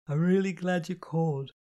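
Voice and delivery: kind, drowsy. A narrator's reading. Astrid comforts crying Kitty on the phone, kind but drowsy. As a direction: reassure kindly through sleepiness. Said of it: "said kindly, but still drowsy".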